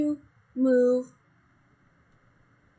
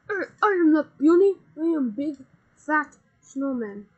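indignant snowman; 5 dB louder than usual. Acted. Snowman boss voiced indignantly.

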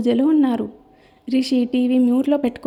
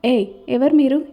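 irritated. Acted. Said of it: "చిరాకుగా చూస్తూ".

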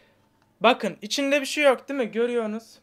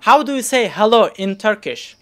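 yabancı taklidi; 6 dB louder than usual. Pretend. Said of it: "çok iyi bir troll var kafamda".

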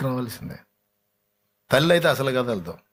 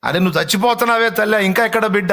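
exasperated scolding; 9 semitones higher, 5 dB louder, faster than usual. Acted. Relatives scolding dying mother.

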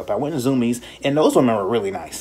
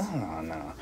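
playful whisper; 7 semitones lower, 14 dB quieter than usual. Pretend. Teased about secrets, whispers denial.

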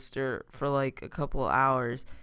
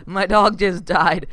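laughing mockery; 4 semitones higher, 10 dB louder than usual. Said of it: "they always fake laugh".

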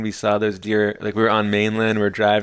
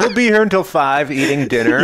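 imitated carefree visitor; 4 semitones higher, 4 dB louder than usual.

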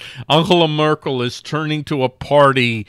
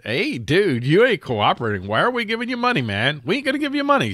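mock dude voice; 8 semitones higher, faster than usual. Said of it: "he tweeted to Pakistan that".

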